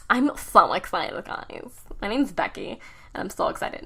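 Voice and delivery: put-on bubbly, breathless valley girl; basic white girl voice. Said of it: "that's my basic white girl voice".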